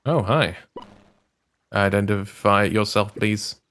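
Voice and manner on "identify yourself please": low, slow security voice; robotic guard voice. Acted. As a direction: speak like a cold guard robot.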